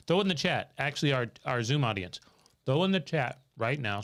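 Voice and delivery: talking around ice; mouth full. Real, not acted. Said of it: "Sorry, I got ice in my mouth".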